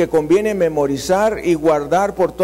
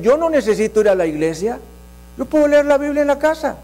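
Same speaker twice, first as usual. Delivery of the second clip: quick, high, mocking voice for the excuse; quick mock of a churchless believer's excuse; mocking quote; 5 semitones higher, faster than usual. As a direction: rattle off the excuse higher, in mock. Mocking people who skip church.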